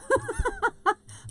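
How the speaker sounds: high, bright burst of giggling; real high-pitched laugh; giggle. Real, not acted. Host amused by her doubts about Vegemite, giggling.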